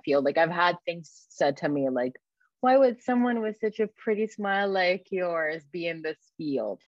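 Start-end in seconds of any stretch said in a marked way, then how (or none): 2.6-6.8 higher-pitched mock-patronizing question, falling at the end; condescending quote. Quoting condescending remark said to her.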